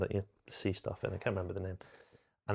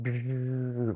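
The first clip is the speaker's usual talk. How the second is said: long buzzing sound effect; drawn-out "brrr" effect; imitated wand noise; 3 semitones higher than usual. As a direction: imitate a spell going off. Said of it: "Harry can go like".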